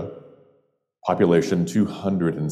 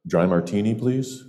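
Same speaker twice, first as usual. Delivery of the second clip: eagerly polite; 4 semitones higher than usual. Retold or imitated. Stranger ordering from the bartender, politely and hopefully. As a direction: order courteously, eager to make friends. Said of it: "with all the politeness that a stranger eager to make friends".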